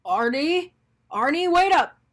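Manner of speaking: calling out after someone walking away; yelling. Acted. Mister Bing chasing Arnie down the driveway, calling out. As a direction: shout his name to stop him. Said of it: "yelled Mister Bing as he ran".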